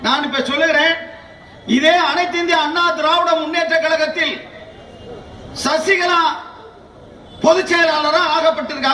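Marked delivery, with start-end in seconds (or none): 0.1-3.3 thunderous political oratory. Acted. Political speech building to applause lines.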